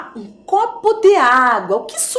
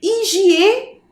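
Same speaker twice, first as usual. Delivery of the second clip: "Higiene" pitched up, with a gap before the last syllable; 8 semitones higher than usual. Shown as a demonstration. Teacher showing the syllables already there, syllable by syllable. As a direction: sound out "Higiene", leaving "ne" apart. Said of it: "as sílabas que nós já temos".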